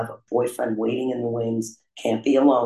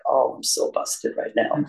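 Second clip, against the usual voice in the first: put-on half-laugh of a kid who knows she's caught; laughing busted; 2 semitones higher than usual. Seeing her parents drive back toward the stolen car, laughing. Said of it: "I was like".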